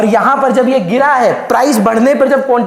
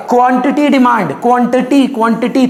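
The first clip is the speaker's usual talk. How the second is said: क्वांटिटी said three times, each firmly; teacher hammering क्वांटिटी; repeated for emphasis. Shown as a demonstration. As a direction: drill the word क्वांटिटी into them. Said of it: "तीन बार बोल रहा हूं".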